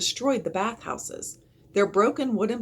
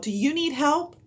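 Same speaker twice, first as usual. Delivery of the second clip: yelled; 9 semitones higher, 4 dB louder than usual. A narrator's reading. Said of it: "the woman yelled".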